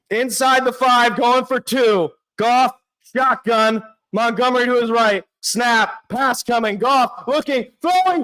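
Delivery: quick running commentary, rising on the throw; live play-by-play. Real, not acted. Fan calling the Lions' final drive, live play-by-play. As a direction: call the play as it happens, fast.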